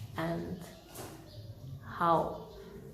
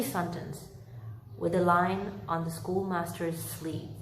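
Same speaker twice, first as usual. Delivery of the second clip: story narration. A narrator's reading. Reads Dickens chapter aloud.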